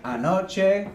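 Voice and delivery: anoche with a Spanish ch, a-NO-che. Shown as a demonstration. Teacher modelling anoche, careful Spanish. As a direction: say anoche clearly for learners. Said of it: "we could talk about last night".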